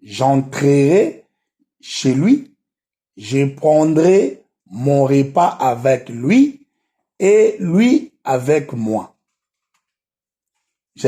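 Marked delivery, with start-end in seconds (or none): 0.0-9.2 slow, measured Bible reading; scripture reading. Acted. Preacher reads the verse to the listeners, slow scripture reading. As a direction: read the verse out phrase by phrase, drawing words out.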